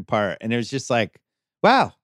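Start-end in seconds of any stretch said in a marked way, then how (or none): 1.6-1.9 high, loud burst of wow; amazed wow. Real, not acted. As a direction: let the wow jump out in awe. Amazed at the handsome Swedes.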